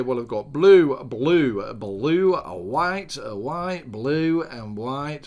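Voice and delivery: broad Hull vowels on each colour; Hull accent. Shown as a demonstration. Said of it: "white from my greatest Hull accent".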